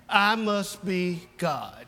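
slow, low self-satisfied drawl; smug cat. Acted. Cat looking up at its owner, smug and slow. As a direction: purr it with lazy arrogance.

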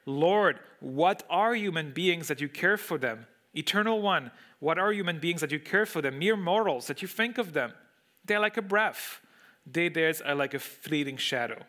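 exclaiming in wonder. Acted. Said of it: "He exclaims".

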